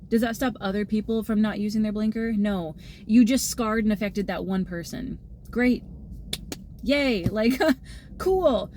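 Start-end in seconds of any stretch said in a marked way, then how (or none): 5.5-8.7 mock-cheerful "yay", pitched higher; sarcastic cheer. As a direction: fake enthusiasm that means the opposite. Mocking cheer after scarring one person.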